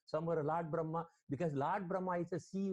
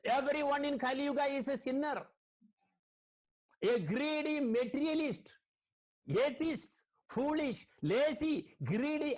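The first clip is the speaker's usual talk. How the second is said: complaining Mother Earth; 5 semitones higher than usual. Retold or imitated. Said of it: "Mother Earth also said".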